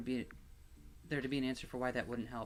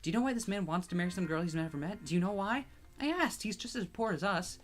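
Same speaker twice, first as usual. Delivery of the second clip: higher, louder, bitter questioning; bitter tearful outburst; 6 semitones higher, 4 dB louder than usual. Acted. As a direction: spit out the injustice through tears. Tearful outburst about the marriage.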